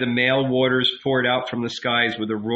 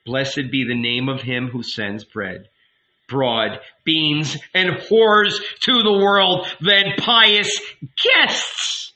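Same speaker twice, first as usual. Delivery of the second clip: mock blessing; 4 semitones higher, 4 dB louder, slower than usual. Woman's mocking blessing.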